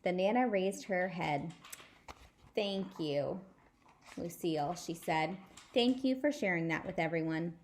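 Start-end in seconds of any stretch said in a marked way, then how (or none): 2.6-7.6 sarcastic. Acted. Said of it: "does not understand sarcastic".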